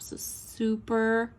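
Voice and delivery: slow, fading into a whisper; whispered gush. Real, not acted. Crafter fading into a whispered gush over tea stamps. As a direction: let the delight trail off into a whisper.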